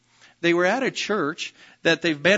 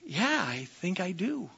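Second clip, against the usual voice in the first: nervous; 3 semitones higher, 5 dB quieter than usual. Retold or imitated. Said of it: "David kind of nervously goes".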